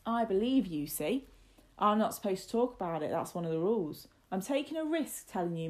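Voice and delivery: emphatic mock-confidential warning, loud starts; earnest Martin. Lad pretends to risk telling young master, emphatic. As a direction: press the point as if at real risk.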